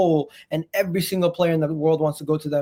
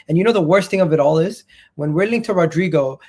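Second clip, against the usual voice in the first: louder, heated football rant; passionate rant; 5 dB louder than usual. Real, not acted. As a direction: get worked up and loud. Heated rant about transfer double standards.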